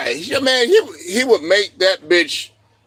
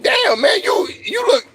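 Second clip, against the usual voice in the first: mock disbelief; 11 semitones higher than usual. Acted disbelief at her looks.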